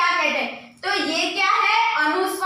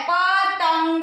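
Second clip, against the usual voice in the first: drawn-out word; much slower than usual. Shown as a demonstration. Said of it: "तो प के बाद त पे देखो".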